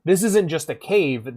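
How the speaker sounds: sudden high, loud yelp of surprise; shocked shout that settles into awe; startled outcry. Retold or imitated. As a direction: jump at what's inside the cave. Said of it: "I walked in the front door and I'm like".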